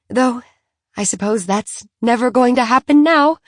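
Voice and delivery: a hint of a Francophile mother, wistful at the end; gushing socialite. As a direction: chatter about France with bright enthusiasm, then sadden. Philly voiced in the story.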